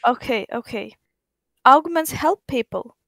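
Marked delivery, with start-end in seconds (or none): 1.6-3.0 a touch of worry in the voice; concerned. Shown as a demonstration. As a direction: say it with gentle concern. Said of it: "with concern in your voice".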